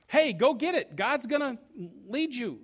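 urgent, rallying prophetess; Deborah. Acted. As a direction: raise pitch and volume to spur him on. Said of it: "She's the prophetess who tells him".

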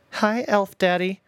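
high, slow singsong jab; sly high teasing, drawn slow; mocking taunt again. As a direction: stretch it out to get under his skin. Son repeats taunt.

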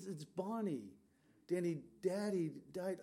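lightly voiced little girl breaking news. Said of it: "I could hear this little voice, almost sounded like a little girl".

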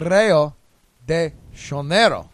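Rio de Janeiro with a Portuguese J sound, Janeiro drawn out; Portuguese pronunciation. Shown as a demonstration. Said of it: "How are you supposed to say it?".

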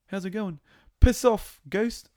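high, loud yelled insult after a casual greeting; a hammed-up snap from chummy to shouting; mock shouted brush-off. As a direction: fling the insult out, playing it up for laughs.

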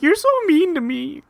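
high, hammed-up whimper; mock whiny Queen. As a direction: whine it like a hurt child. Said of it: "she's like".

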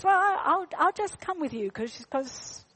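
a hint of a small lost boy; lost boy's voice. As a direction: voice the unsure child. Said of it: "he goes".

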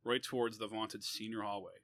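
measured, deliberate read-aloud; story reading. A narrator's reading. Author reading an essay about defending a brother, measured narration. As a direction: read it out in phrases with pauses.

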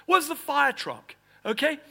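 mock anxious call. Preacher voicing the frightened crowd, loud and high. Mocking people waiting for help.

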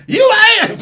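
loud, high put-on British shout; hammed-up British outburst; mock British yell. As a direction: bark it like an outraged Brit.

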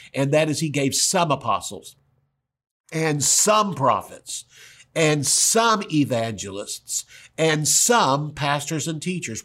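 every "some" slow and weighted, spaced with pauses; stress on some. Shown as a demonstration. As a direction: lean hard on each "some", one by one. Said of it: "Why do I emphasize that?".

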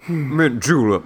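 practice Southern accent, testing the voice; Southern accent warm-up. Shown as a demonstration. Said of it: "you warming up by saying mint julep".

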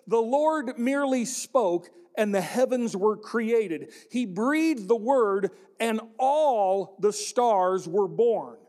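slow, solemn reading of the verse; scripture reading. Acted. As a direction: read the psalm with reverence. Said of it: "Psalm thirty-three six says this".

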